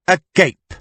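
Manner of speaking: "A gape" said to rhyme with tape; one-syllable "gape". A narrator's reading. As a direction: say "A gape" in two syllables, ending like "cape". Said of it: "three syllables meaning peace and love".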